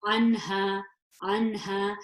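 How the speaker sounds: crisp n in Anha, no nasal hold; clear nun. Shown as a demonstration. Teacher showing a clear nun in Anha, with no gunna. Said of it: "I would pronounce this nun nice and clearly".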